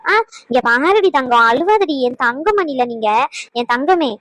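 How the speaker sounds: lilting, affectionate comforting; tender soothing. Acted. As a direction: coo to a crying child, drawing out endearments. Soothing a crying sick child.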